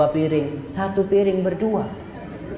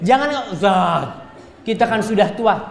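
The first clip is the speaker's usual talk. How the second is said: coy giggling wife; 3 semitones higher, slower than usual. Pretend. Teasing pretend wife.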